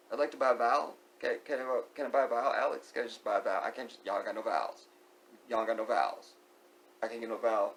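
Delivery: hammed-up plea to buy a vowel; game show contestant. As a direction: play a frustrated Wheel of Fortune player. Wheel of Fortune joke bit.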